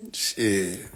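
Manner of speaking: hissed whisper of shit; whispered curse. Real, not acted. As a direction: breathe the curse out.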